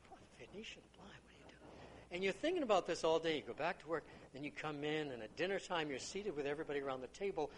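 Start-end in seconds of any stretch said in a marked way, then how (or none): 0.1-1.9 whispered, fast and confused; puzzled whisper. Acted. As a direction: whisper it to yourself, baffled. Confused listener muttering to himself.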